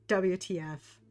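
spelled out in anger; angry. Acted. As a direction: spit out the letters angrily. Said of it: "with all of the anger".

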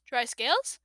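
ordinary delivery, nothing marked

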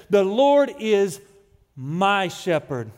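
"Lord" hit hard, then a pause before "my shepherd"; slow, stressed "Lord" with a pause before "my shepherd"; certain, slow and weighty. Retold or imitated. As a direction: declare it with absolute certainty, leaning on "Lord". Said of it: "He wrote with absolute certainty".

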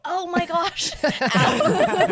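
high, loud mock yelp through laughter; imitating a half scream. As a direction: laughingly imitate him shrieking on the ride. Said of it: "he's kinda, like, half screaming".

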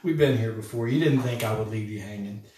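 a hint of reassuring teasing; mild buddy-to-buddy reassurance; friendly reminder. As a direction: gently remind old friends. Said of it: "in a way that you might with your friends".

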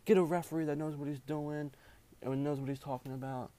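half-hearted impersonation of a yelling coach; retold coach yelling. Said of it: "coach is just yelling at me".

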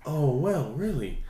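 light country twang, soft and lilting; southern accent. Shown as a demonstration. Showing friends a little country accent, southern twang. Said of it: "the more the southern accent".

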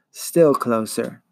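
very slow, drawn-out creature coaxing; buzzing monster voice. Acted. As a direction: draw out the words as the luring swarm. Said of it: "the swarm buzzed".

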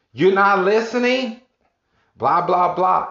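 hammed-up furious customer rant; mock angry customer. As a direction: bark it like she's fed up with your silence. Upset customer yelling at him.

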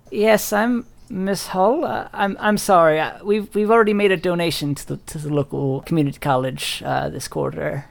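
put-on high, hesitant old lady voice; sweet little old lady. Old woman turns away a supposed fundraiser, sweetly apologetic. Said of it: "What a sweet little old lady".

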